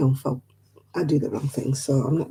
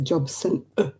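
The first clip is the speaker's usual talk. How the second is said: dropped T; 4 dB quieter than usual. Retold or imitated. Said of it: "they miss the T out".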